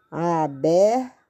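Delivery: Aberto stretched as aa-ber...to; slow syllable by syllable. Shown as a demonstration. Teacher rewriting after a mistake, slow syllables. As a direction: sound out Aberto slowly, pausing before the end. Teacher sounding out while writing.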